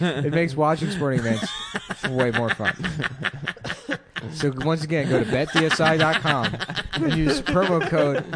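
laughing through the ad. Real, not acted. Reading ad while cracking up.

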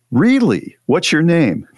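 high, curious mock astonishment; clueless surprise. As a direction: ask it with wide-open innocent interest. Reads clueless reply in anecdote.

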